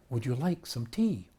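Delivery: slow Scottish auntie offering tea; imitated Scottish auntie; Scottish accent. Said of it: "in a Scottish accent".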